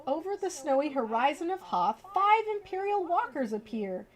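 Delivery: lively storybook read-aloud; reading to children. Acted. Streamer reading a bedtime book to viewers, lively storybook voice.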